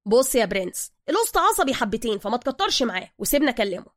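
Soka's voice. Acted. Soka warning Bruce about the master, lightly voiced.

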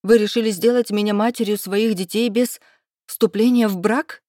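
indignant. Acted. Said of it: "вырвалось у меня возмущённо".

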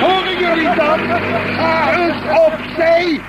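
high, slow mocking echo of her order; mocking her words. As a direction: drag her words out to ridicule her. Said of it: "zegt madame".

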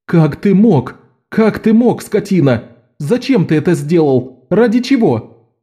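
high, pained cries of disbelief; anguished outburst. A narrator's reading. Jean confronts Locke over the poison, anguished and high. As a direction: hurl the questions at him, heartbroken.

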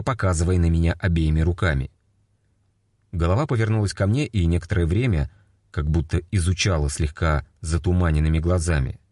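usual speaking voice

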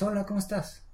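high, bright excited hello; excited greeting. Shown as a demonstration. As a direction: greet friends at the airport with excitement. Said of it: "imagínate que estás muy emocionada".

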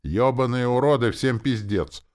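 lightly voiced death spirit howling curses; mock spirit howl. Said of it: "жуткое завывание".

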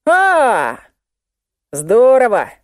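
high gleeful cry; gloating delight. A narrator's reading. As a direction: crow over it with glee. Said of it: "обрадовался толстяк".

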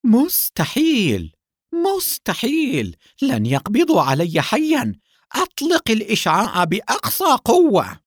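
high, desperate cries of disbelief; full of panic. A narrator's reading. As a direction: refuse defeat in a panicked shout. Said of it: "وقال بلهجة ملؤها الفزع". (صراخ ملؤه الفزع)

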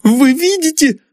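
very high terrified question; frightened daughter; horrified. Acted. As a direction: point out the horror in fear. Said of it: "в ужасе проговорила".

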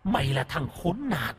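soft, hollow, eerie ghost voice; ghostly voice. Acted. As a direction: speak like a vengeful spirit. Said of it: "giọng âm u, ma quái". (giọng âm u ma quái)

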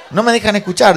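high, loud mock protest; indignant complaint. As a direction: complain across a noisy cinema. Espectador se queja en cine. (queja indignada, aguda y fuerte)

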